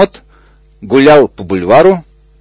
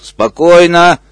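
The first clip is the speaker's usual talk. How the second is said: exclaimed; 5 semitones higher, slower than usual. Acted. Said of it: "воскликнул бегемот".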